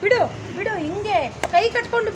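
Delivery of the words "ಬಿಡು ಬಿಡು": "ಬಿಡು, ಬಿಡು" pushed out firm and louder; forceful plea. Shown as a demonstration. Director shows the boy how to forcefully say let go. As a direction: shove back and bark "ಬಿಡು, ಬಿಡು". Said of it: "ಹಿಂಗಲ್ವೇನೋ ತಡಿಯೋದು".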